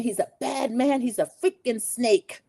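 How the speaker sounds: hammed-up outrage, drawing out the last phrase; mock indignant accusation. Maura's confessional about Rob, mock indignant.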